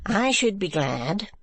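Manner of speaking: slow, severe and sinister; stern wife ordering her husband home. Acted. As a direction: let the smile turn menacing. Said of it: "severe and sinister smile".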